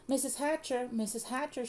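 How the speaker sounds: put-on high-pitched eager girl's call. A narrator's reading. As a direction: call for a grown-up's attention. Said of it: "Sheila called".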